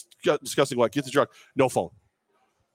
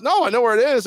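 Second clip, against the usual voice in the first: high, louder imitation of the coach; coach's reply; 10 semitones higher, 5 dB louder, faster than usual. Coach answering about the lost phone, high and loud. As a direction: pipe it up breezily as the coach. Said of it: "He goes".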